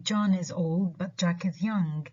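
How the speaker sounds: "but" kept weak, content words carrying the beat; unstressed BUT. Shown as a demonstration. Teacher repeating the example, "but" unstressed. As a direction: keep "but" unstressed before "Jack is young". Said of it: "but in this sentence are not stressed".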